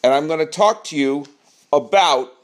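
projected host's delivery, spaced out; performing for the room, voice pushed out; projecting. Real, not acted. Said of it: "Why are you yelling?".

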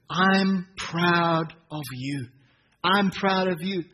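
slow, tender blessing; tender affirmation. Shown as a demonstration. Preacher modelling the words for parents, slow and tender. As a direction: speak it over them like a blessing. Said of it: "let's speak these words over".

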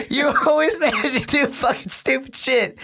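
high, furious mock rant; imitating mom yelling. Mom yelling at her son over speaker, high furious rant. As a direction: rail at him like an enraged mom.

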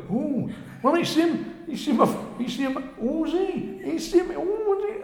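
very high mock squeal with laughter; excited onlookers. Two passers-by arguing over who he is, high mock excitement. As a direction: imitate baffled passers-by, pitched right up.

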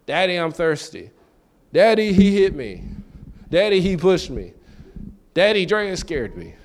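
lightly voiced whining children; a hint of kids calling for dad; whiny kids. Children calling their father with every problem, mild whine. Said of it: "they cry out when problems arise".

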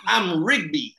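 badly faked Italian-American accent; Italian accent slipping into something else; failed Italian accent. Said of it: "This ain't even Italian no more".

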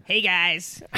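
mock Mid-Atlantic greeting, loud; playful, punched Mid-Atlantic accent. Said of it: "That's a Mid-Atlantic".

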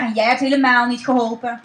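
fast, loud angry yell; fast mock angry shout. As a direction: snap at her loudly and quickly. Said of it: "schreeuwde Cas tegen haar".

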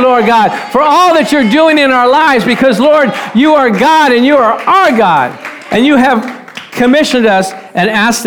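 preacher praying aloud to God, building then settling; fervent prayer. Acted. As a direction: lift it up as a prayer, then bring it down to a hushed amen.

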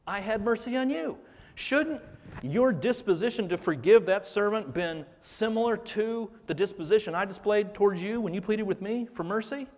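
lightly voiced master scolding his servant; stern master. Preacher voicing the master rebuking the servant, mock indignation. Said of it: "and he says to him".

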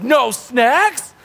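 put-on high, whining kid voice; whiny kids. Kids in the back seat complain to dad, high mock whine. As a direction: whine like a bored kid in the car. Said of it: "the kids in the back are like".

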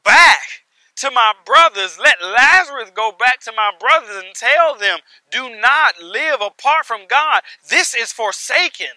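loud stressed words in a mildly acted warning from hell; rich man in hell. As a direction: preach the lightly voiced plea of a condemned man. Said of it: "rich man who is in hell speaking".

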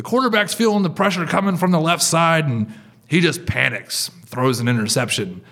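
loud, high play-by-play imitation, settling by the end; sports commentator. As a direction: call it like a ball game announcer. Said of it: "like, a ball game, they'll say something like".

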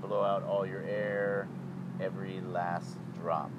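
measured yoga breathing voice; guided breathing. Shown as a demonstration. Leads a breathing exercise.

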